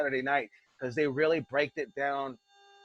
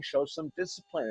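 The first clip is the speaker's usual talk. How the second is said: very calm; 3 dB quieter than usual. Retold or imitated. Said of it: "very calmly saying".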